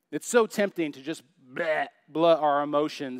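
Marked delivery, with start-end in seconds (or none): 1.5-1.9 imitated blurting "bleh"; spewing noise. Pastor showing emotions spilling out, spewed noise. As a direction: blurt it out like spitting up.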